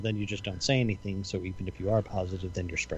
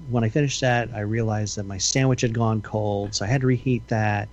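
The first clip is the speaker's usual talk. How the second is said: rambling coworker; 2 semitones higher, 3 dB louder than usual. Retold or imitated. Mimicking rambling coworker's story.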